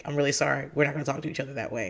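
low, soft mumbled sorry; retold apology. Husband's retold apology after fight.

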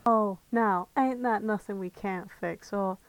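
put-on call girl Caramel. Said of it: "I can be Caramel".

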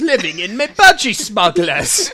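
laughing mock Aussie bloke; mock Australian. Cohost riffing in a jokey mock Australian accent. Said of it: "veered into, like, a posh British guy".

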